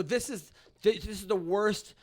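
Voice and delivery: loud mock outrage; retold rant. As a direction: go off on them in a staged tirade. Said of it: "I went off on the whole thing".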